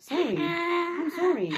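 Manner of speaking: high, long-drawn sorry; apologetic coo, slow and high; drawn-out apology. Real, not acted. Apologizing to crying child.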